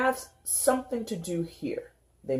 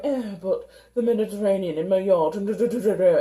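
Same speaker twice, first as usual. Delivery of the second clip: mock bragging; 4 semitones higher, 4 dB louder, faster than usual. Mimics a bragging traveler.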